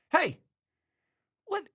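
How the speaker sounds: high, loud, hammed-up yell; mock angry shout. Boss catching his assistant in the pool, a hammed-up high yell. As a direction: shriek at the trespasser in your pool.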